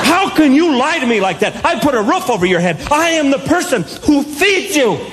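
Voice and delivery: hammed-up indignant parent, lightly voiced; parent lecture. Parent confronts child about lying, mock indignant. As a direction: scold like a mock-outraged parent. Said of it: "I went into that parent thing".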